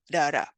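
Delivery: "da, da" as quick tongue taps; "da, da" as the flapped American T sound; tap sound demo. Shown as a demonstration. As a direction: flick the tongue lightly for each "da, da". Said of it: "we use this, uh, phoneme".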